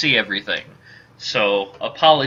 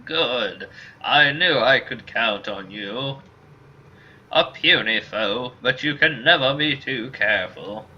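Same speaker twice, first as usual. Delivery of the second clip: lightly voiced old man giving counsel; measured elder, pleased then cautioning; old mercenary. Old mercenary advising Ender on striking first, lightly aged voice.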